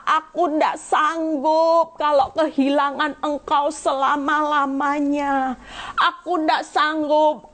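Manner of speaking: slow, tearful words breaking into a sob; crying while speaking. Real, not acted. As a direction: let the tears come through the words. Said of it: "saudara, saya nangis". (menangis pelan sambil berbicara)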